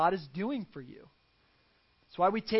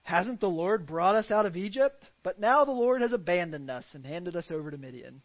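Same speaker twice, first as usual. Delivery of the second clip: sarcastic; 5 dB louder than usual. Retold or imitated. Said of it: "I can hear the sarcasm in his voice".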